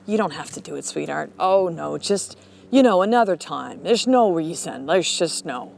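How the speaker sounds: lightly voiced devil on the shoulder, soothing; a hint of syrupy permission to quit; coaxing devil. Little red devil talking someone out of trying, lightly coaxing. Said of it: "like that little red, you know, the little red devil".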